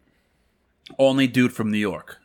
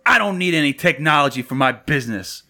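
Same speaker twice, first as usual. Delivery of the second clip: slightly raised voice of a balking customer; retold phone brush-off, a touch louder; mock raised voice; 3 semitones higher, 3 dB louder than usual. Customer refusing a sales rep, mildly raised voice. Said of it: "I was just matching his voice".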